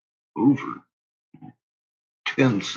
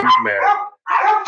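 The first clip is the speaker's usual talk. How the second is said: high pet talk; 4 dB louder than usual. Real, not acted. Talking about the dog.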